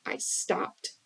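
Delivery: whispered admission; near whisper. Real, not acted. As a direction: let it fall to a whisper. Soft confession about stopping yelling.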